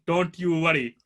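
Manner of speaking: lightly imitated mum's accent; a hint of Mum's accent. Mum reassures her son, in her accent. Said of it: "in her accent".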